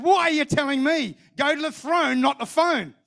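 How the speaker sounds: mock maternal telling-off; imitated motherly scolding. Mother scolds son on phone.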